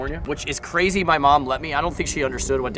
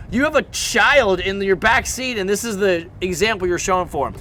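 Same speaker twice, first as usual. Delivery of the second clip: retold scolding; 5 semitones higher than usual. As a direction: reenact a bummed teen scolding a grown man.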